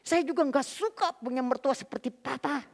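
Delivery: half-strength angry shout; retold yell. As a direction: call back defiantly from another room. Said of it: "dari dalam kamar saya berteriak".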